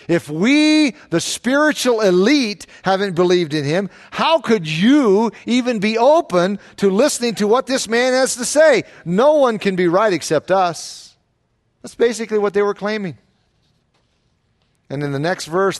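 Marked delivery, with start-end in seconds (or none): 0.1-11.1 lightly voiced smug elite, pitched higher; arrogant Pharisees. Preacher mocking the proud Pharisees, smug and higher. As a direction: play the self-important elite, a touch higher. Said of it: "What they were saying was basically this".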